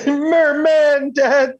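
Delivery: high, slow, delighted exclamation; excited shout. Real, not acted. Laughing at the dad on screen, an excited outburst. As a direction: blurt it out in gleeful disbelief.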